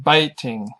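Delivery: baiting slowly, with BAIT stressed; stress on first syllable. Shown as a demonstration. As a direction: draw out baiting, leaning on BAIT. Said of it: "the first syllables".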